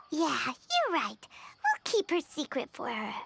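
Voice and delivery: gentle agreement. Acted. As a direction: agree gently to keep her secret. Quiet agreement to keep secret.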